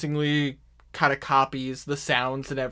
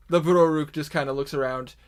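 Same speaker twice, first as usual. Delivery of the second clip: ordinary talk, nothing marked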